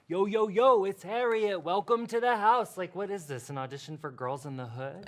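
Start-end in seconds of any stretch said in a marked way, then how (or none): 0.1-2.8 higher, louder mock podcast intro; teasing send-up of a brash host; mimicking hype host. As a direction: parody a friend's hyped-up intro. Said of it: "You were like".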